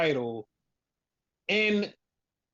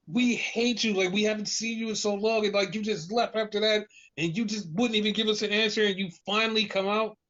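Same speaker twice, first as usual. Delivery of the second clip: raised-pitch voice of an aggrieved crowd; crowd's complaint; 4 semitones higher than usual. Retold or imitated. Fans rounding on a returning wrestler, mock reproach. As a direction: mildly mimic fans' reproach.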